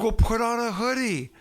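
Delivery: high, incredulous rebuke; retold exasperated scolding. Host to guests complaining of cold, exasperated mock scolding.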